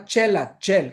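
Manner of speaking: ΤΣΕΛΑ with a hushing ch; thick ch. Shown as a demonstration. Teacher pointing out thick ts, hushing ch. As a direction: thicken the first consonant of ΤΣΕΛΑ. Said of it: "παχύ ταυ σίγμα".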